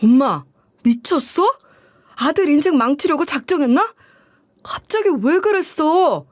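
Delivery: a hammed-up son raging at mom; mock furious yelling. Son yelling at his mother over the debt, mock furious. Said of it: "이렇게 소리치면서 길길이 날뛰었어요".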